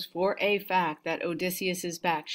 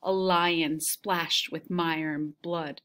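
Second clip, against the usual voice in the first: measured reading of an epic passage; story reading. Acted. Teacher reading the Odyssey to her class, storytelling voice.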